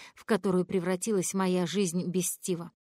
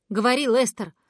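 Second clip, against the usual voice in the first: louder, insistent order; urgent demand; 4 semitones higher, 8 dB louder than usual. Acted. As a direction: demand he speak now. (требовательно и громко, с нетерпением)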